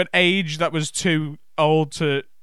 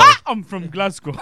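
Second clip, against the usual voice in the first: higher, louder Glaswegian "Ah, I'm from Glasgow"; loud Glaswegian accent; 4 semitones higher, 6 dB louder than usual. Pretend. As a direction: belt it in broad Glaswegian. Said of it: "your different sounds from all around the world".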